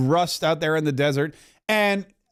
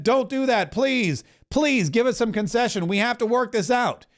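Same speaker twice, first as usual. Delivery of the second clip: higher, whiny begging; mock pleading; 4 semitones higher than usual. Leaders begging Trump to drop tariffs, mock pleading. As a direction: beg for mercy, half joking.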